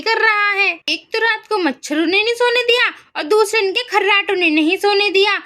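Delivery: lightly acted irritated complaint about a snoring husband; mild anger. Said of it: "इतनी सुबह क्यों गुस्सा कर रहे हो". (हल्के गुस्से में शिकायत)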